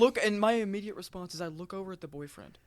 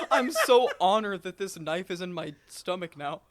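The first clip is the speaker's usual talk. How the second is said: laughing through a sarcastic thank-you; slow, amused fake gratitude; mock honored, laughing; 4 dB louder than usual. Mocking a stabbing victim's thanks, laughing through it.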